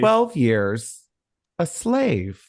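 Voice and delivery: high breathy announcer imitation; a light take on Goldie Hawn presenting; Goldie Hawn impression. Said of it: "how Goldie Hawn introduced".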